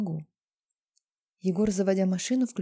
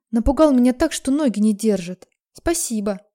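sarcastic; 3 semitones higher, 7 dB louder than usual. Acted. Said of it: "язвлю я".

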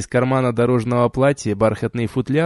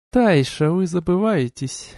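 slow, cool, detached; indifferent rebuke; 6 semitones higher, slower than usual. A narrator's reading. Duchess coolly rebuking Taisha, indifferent. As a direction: say it as if bored. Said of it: "равнодушно сказала герцогиня".

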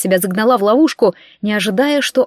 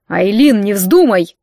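urgent forbidding; 4 dB louder, slower than usual. Acted. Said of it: "вырвался Ридан".

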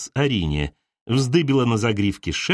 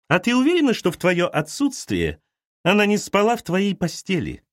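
scheming insinuation, leaping high on «уверена» and «помнишь»; a mother poisoning her daughter's trust; suspicious mother; 4 semitones higher than usual. Acted. Mother suspects Arina. (мать подозрительно нашёптывает)

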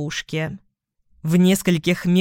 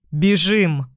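loud command; 3 dB louder than usual. Acted. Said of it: "громко скомандовал Вик".

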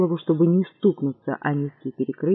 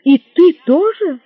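astonished; 10 semitones higher, 8 dB louder than usual. Acted.

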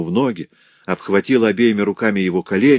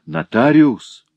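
through gritted teeth; 4 semitones higher, 6 dB louder, slower than usual. A narrator's reading. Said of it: "глухим голосом сквозь стиснутые от ярости зубы".

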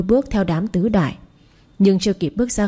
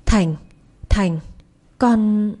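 wailing cry; much slower than usual. A narrator's reading. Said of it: "bà gào lên khóc".

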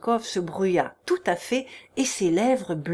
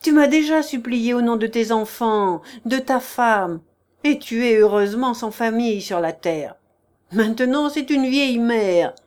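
scornful rebuke; 4 dB louder than usual. Acted. Prince exposes repeated lie.

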